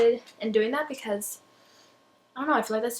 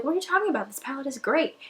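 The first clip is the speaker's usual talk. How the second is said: surprised disbelief; 3 semitones higher, faster than usual. Retold or imitated. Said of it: "And they'll be like".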